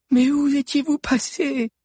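high, eager question; excited girl. A narrator's reading. A girl asks the fugitives where they were, high and excited. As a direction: ask with excited curiosity.

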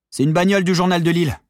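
high, loud cry throughout; shouted news. A narrator's reading. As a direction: call it out excitedly over a distance. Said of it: "cria à son tour Maddy".

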